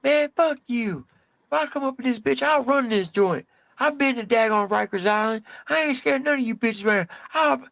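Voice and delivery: aggressive high-voiced tough guy. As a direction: private snarling at the inmate. Private's rant at inmate.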